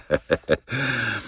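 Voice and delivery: a short, quiet amused laugh; soft laugh. Acted. Director amused by the Frenchman's retort, quietly. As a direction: laugh it off softly.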